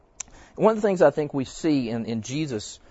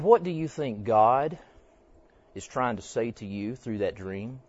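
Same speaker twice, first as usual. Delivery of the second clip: gentle question. Retold or imitated. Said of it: "I said it very, very much like this in the form of a question".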